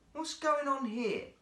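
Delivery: high, puzzled exclamation; surprised keeper. A narrator's reading. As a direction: sound baffled by the seals.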